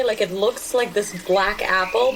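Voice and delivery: ordinary delivery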